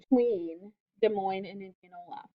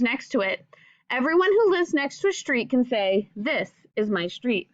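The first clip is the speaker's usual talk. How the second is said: clear, gentle read-aloud to a class; reading to children; 3 dB louder than usual. Acted. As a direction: read the book aloud to young pupils, patiently. Teacher reads picture book to class.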